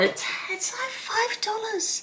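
high-pitched exasperated rant. Acted. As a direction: whine it high, as if at wit's end. Exasperated rant about buying new.

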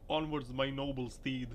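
very high hammed-up battle cry; mock heroic rider. Vlogger voicing a Santa driver charging ahead, hammed-up heroic shout. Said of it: "He was like".

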